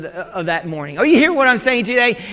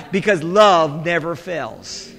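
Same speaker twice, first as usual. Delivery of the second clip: slow, low, sincere; 5 semitones lower, 3 dB quieter, slower than usual. Real, not acted.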